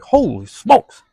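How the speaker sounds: high, slow, drawn-out holy smokes; stunned exclamation. Acted. Driver reacting to the officer, drawn-out shocked exclamation. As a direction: let it hang in shock, stretched long.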